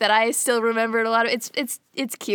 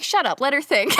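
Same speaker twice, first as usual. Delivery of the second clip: laughing mock snap; 3 semitones higher than usual. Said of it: "And they're like".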